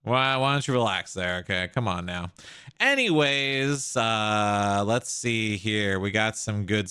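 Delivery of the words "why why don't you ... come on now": mock-soothing, belittling tone; condescending calm down. Real, not acted.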